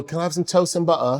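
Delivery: light put-on British accent, softly said; mimicked British accent. Shown as a demonstration. Asking what locals would say, mimicked British accent. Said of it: "I just start mimicking".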